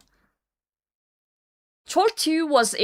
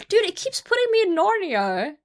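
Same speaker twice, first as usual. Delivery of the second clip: exasperated; 10 semitones higher than usual. Real, not acted. Frustrated at app redirect.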